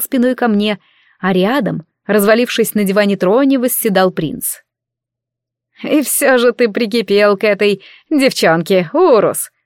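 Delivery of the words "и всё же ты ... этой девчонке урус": lazy teasing royal voice; mocking prince. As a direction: chuckle it at him like a bored prince. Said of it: "со смешком сказал принц".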